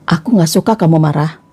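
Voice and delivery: low, calm statement to a partner; calm honesty. Shown as a demonstration. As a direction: gently set a boundary, voice dropped low. Models how to tell partner. (bicara tenang dengan nada rendah)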